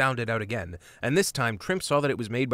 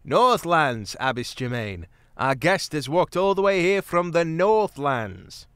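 louder, higher, spelled out for a deaf ear; speaking loudly; 5 semitones higher, 5 dB louder than usual. A narrator's reading. Mouse speaks loudly to deaf Abbess. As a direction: raise the voice so the old one hears. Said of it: "spoke loudly".

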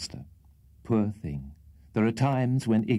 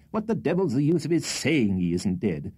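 raised, irritated scolding; exasperated higher-pitched outburst; rough impatience; 6 semitones higher than usual. A narrator's reading. Wardle to his hysterical sister, rough and impatient. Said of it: "rather more roughly than was quite consistent".

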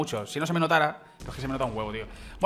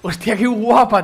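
loud, drawn-out excited admiration; real wowed gamer outburst; impressed; 5 semitones higher, 9 dB louder, slower than usual. Real, not acted. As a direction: blurt it out slowly, high and loud. Gamer admiring new weapon skin.

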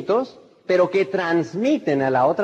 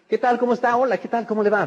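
higher, cheerful hellos; friendly greeting; 5 semitones higher, faster than usual. Shown as a demonstration. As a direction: greet warmly and brightly. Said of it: "dar la mano y saludar". (saludo amable y más agudo)

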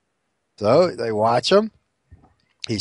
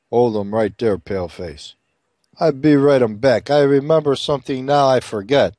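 low stilted broken English, lightly done; a hint of a gruff old chief; lightly voiced Chief; 3 semitones lower than usual. The Chief tells the saloon keeper to wait, lightly voiced.

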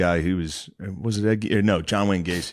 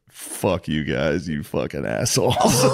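slow, low, drawn-out insult; retold scornful taunt; 5 semitones lower, slower than usual. Killer's last words to families, slow low taunt. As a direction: drag it out low, breaking into a laugh. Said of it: "talked shit at the execution".

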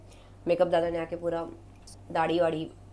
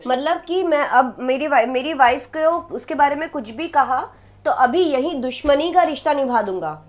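tough man character; 6 semitones higher, 11 dB louder than usual. Acted. Rehearses male character's lines.

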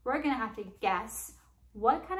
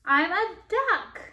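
duck voice; 7 semitones higher, 6 dB louder than usual. Acted. Duck revealed on page.

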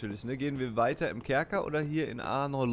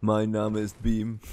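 extremely deep bass voice; 2 semitones lower, slower than usual. Retold or imitated. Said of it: "die tiefste Stimme in ganz Deutschland".

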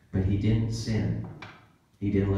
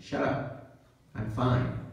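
whispered shut up; hushed mock denial; 2 semitones higher, slower than usual. Preacher acting someone hissing shut up at a friend. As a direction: snap it off under the breath. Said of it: "And then they'll say".

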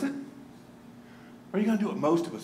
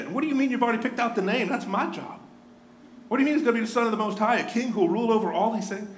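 fast, tumbling, mildly flustered protest; a lightly voiced girl, rushing through her disbelief; flustered young Mary; 3 semitones higher, faster than usual. Mary reacts to angel's news.

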